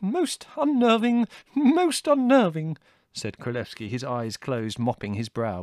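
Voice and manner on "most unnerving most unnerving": high, loud, drawn-out dismay; fussy character in high-pitched distress; unnerved. A narrator's reading. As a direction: wail it slowly, badly rattled. Królewski rattled by the explosion.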